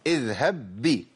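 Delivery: slow recited اذهب بي with the two ب merged into one doubled ب; merged baa demo. Shown as a demonstration. Teacher showing idgham of baa, slow recitation. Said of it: "يبقى أقول إيه".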